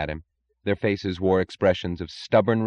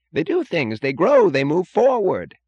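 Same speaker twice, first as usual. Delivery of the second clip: much higher and louder cry; 11 semitones higher, 8 dB louder than usual. A narrator's reading. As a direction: burst out, building in pitch. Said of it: "cried Holloway".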